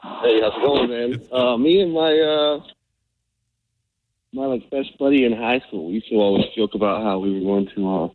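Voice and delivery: muffled paper cup phone line; bad headphone call audio; tin can phone. Real, not acted. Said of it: "it sounds like you're talking through a paper cup".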